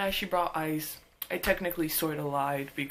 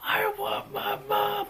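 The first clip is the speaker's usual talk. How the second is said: high, slow, sobbing cry, pushed louder; high drawn-out childish sob, building louder; louder mock crying child; 5 dB louder, slower than usual. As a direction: wail it again, louder and more desperate. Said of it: "like, crying".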